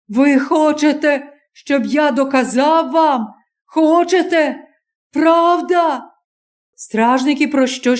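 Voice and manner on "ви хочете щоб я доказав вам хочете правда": higher, challenging questions; bitter young man. Acted. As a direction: throw the question back at them. Stranger challenges the crowd.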